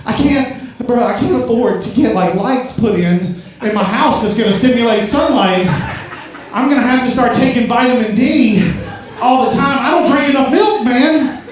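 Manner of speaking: mock panic, pitch climbing as it goes; retold hyperventilating panic. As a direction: act out a mounting freak-out. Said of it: "I'm hyperventilating".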